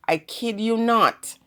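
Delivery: normal talking voice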